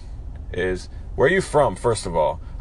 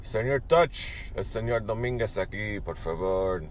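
put-on horrible Spanish accent; 4 dB quieter than usual. Caller greeting Señor Touch, badly faked Spanish accent. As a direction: ham up a bad Spanish accent. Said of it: "That was horrible accent".

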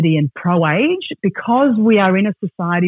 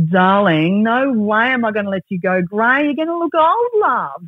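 dismayed hairdresser; 3 semitones higher than usual. Retold or imitated.

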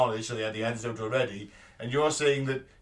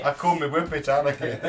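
mock northern accent. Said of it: "northern accent".

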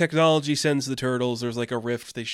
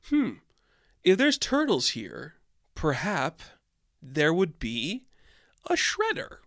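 hammed-up cartoon villain pondering; scheming Shredder; 2 semitones higher than usual. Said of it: "the eighties Shredder's like".

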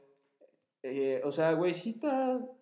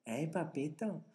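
mock northern accent; 4 dB louder, slower than usual. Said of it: "todo el tiempo te estén diciendo".

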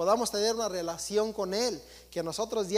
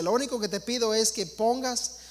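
a louder, preached God's voice quoted from others; mildly voiced forgiving God speaking to his children; voicing their God; 4 dB louder than usual. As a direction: preach it as the God people imagine. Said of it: "lo que enseñan allá afuera que Dios dice".

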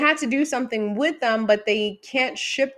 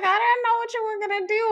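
flustered high voice; 12 semitones higher, faster than usual. Retold or imitated. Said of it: "And I was just like".

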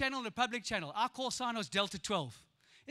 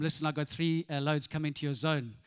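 much lower radio operator; radio call voice; 8 semitones lower than usual. Retold or imitated. Boy calling his farmer friend on radio. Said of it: "I'd tell him".

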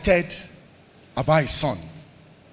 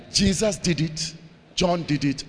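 quiet repeat; 3 semitones lower, 5 dB quieter than usual. Real, not acted. Preacher repeating the pattern softly to the congregation. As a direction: bring it down to a hush. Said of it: "And we also will do what?".

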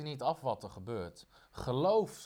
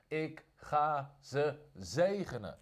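God's voice; much slower than usual. Acted. God's voice quoted slowly.

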